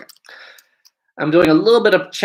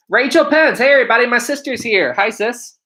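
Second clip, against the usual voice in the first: high, loud, delighted shout-out; excited greeting; 7 semitones higher, 4 dB louder than usual. Real, not acted. Streamer spots their sister in the chat, excited greeting. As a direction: announce a loved one's arrival with pitched-up excitement.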